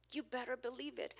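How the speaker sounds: soft aside with "you" leaned on; quiet echo. Shown as a demonstration. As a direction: say it again under your breath, stressing "you".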